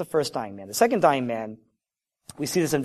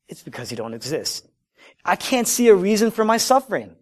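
emphatic surges that fall back on each answer; insistent ultimatum; 6 dB louder than usual. Acted. Sufferer gives God an ultimatum, insistent and emphatic. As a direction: hit each condition hard, as an acted ultimatum.

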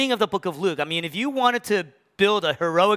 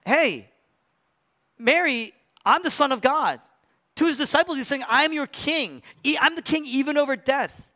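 Jesus proclaiming; 9 semitones higher than usual. Retold or imitated. Risen Jesus announces himself.

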